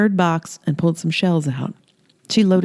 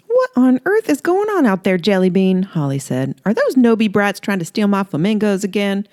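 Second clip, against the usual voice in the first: higher, sing-song flirty southern woman; flirty Holly; 5 semitones higher than usual. Acted. Holly flirting with Earl in her robe, high coy voice. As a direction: coo it up high, teasing him.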